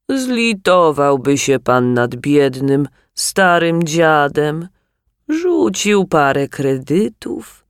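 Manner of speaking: slow whiny beggar plea; pleading old beggar. Acted. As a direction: beg slowly like an old tramp. Beggar begs for credits.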